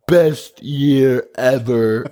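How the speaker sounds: slow, high boastful brag; Trump impression. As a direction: brag like a showman. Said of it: "More Trump".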